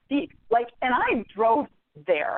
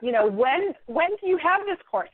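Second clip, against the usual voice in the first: fake polite. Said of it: "close the book very gently and I say".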